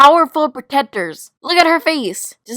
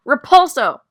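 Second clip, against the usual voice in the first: loud, raised-pitch incantation; shouted spell; 3 semitones higher, 6 dB louder than usual. Acted. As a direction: hurl the spell at an attacker. Casts spell in a fight.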